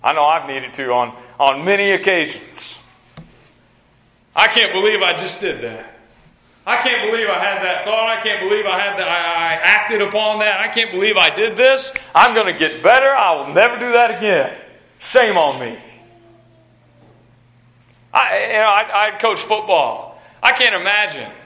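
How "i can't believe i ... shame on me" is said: firm, driving self-reproach; fiery self-rebuke. Acted. Preacher acting out scolding himself for a mistake, fiery self-rebuke. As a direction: scold yourself with fire, building in force. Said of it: "You ever saved yourself with fire?".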